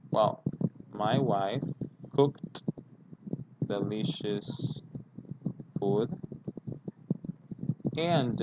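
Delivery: slow model sentence with pauses between phrases; slow dictation. Shown as a demonstration. Teacher dictates a weekend example slowly for students. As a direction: read it slowly so they can write it. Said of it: "give you an example".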